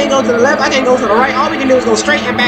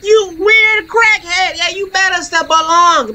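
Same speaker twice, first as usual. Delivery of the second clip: slow high insult; 6 semitones higher than usual. Pretend.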